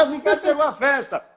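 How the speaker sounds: quick excited announcement; excited intonation. Shown as a demonstration. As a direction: burst out with the news. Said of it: "só com a entonação de voz".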